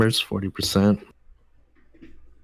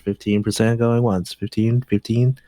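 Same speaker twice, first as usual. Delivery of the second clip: auctioneer. Pretend. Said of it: "It's like a bid now".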